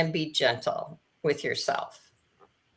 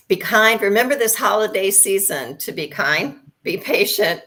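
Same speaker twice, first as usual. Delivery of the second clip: louder, higher, pressing the words kind and patient; emphatic be kind; 4 semitones higher, 5 dB louder than usual. Real, not acted. Guest closing the show urges listeners: emphatic, louder plea. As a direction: urge everyone warmly but firmly.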